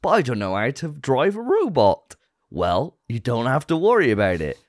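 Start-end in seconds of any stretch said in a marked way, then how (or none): 0.0-2.1 mock musing. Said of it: "If you were thinking".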